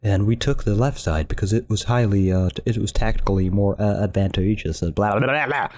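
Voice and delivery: stiff monotone robot voice, mocking himself; flat, mechanical, like a robot reading. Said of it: "I talk like a robot".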